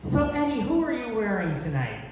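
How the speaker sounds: high, eager interviewer voice; gushing red carpet chatter. Retold or imitated. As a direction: gush like a red carpet host. Red carpet interviewer asks Ed Gein.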